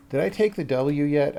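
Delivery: normal talking voice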